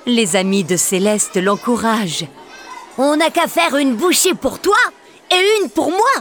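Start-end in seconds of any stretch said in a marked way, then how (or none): 3.0-6.1 put-on higher, playful child voice; little boy cajoling, rising higher; Gaston coaxing. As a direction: coax a friend to eat, mouthful by mouthful. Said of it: "propose Gaston".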